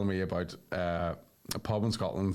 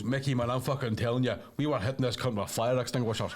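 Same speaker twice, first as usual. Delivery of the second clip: laughing while quoting; 3 semitones higher than usual. Retold or imitated. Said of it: "he goes".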